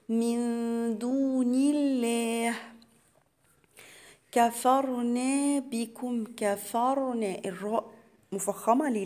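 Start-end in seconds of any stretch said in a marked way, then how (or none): 0.1-7.4 drawn-out tajweed chant, each syllable held; slow Quran recitation. Shown as a demonstration. Teacher recites the verse to students as a slow chant. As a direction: recite it slowly for the students, holding the long vowels. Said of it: "قلت إيه؟".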